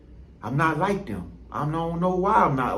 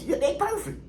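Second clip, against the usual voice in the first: sarcastic; 10 semitones higher, 6 dB quieter than usual. Real, not acted. Sarcastic concession about perfect people.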